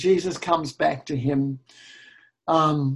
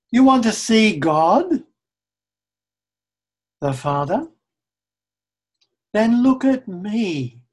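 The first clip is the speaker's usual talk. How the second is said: loud, raised proclamation as Jesus; Jesus, loudly; 3 semitones higher, 7 dB louder than usual. Acted. Preacher voices Jesus calling out to his listeners, loud. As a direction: call it out boldly as Jesus. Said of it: "Jesus is saying to us".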